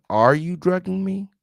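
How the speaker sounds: "Are you drugging me?" pitched high, lifting to the end; question tune. Shown as a demonstration. Host corrects a transcript's wording, high questioning tune. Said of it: "isn't the question".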